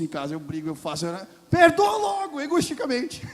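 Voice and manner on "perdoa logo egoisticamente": loud laughing exhortation. Acted.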